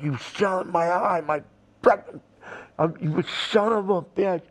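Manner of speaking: a touch of retold fury; lightly pissed-off curse; mild mock anger. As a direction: spit the insult out, half-hearted. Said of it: "I'm just pissed".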